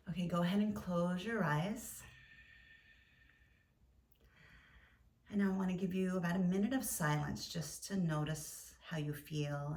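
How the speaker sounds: gentle yoga nidra guidance with long pauses; guided meditation. Acted. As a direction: guide listeners into stillness, leaving space between phrases.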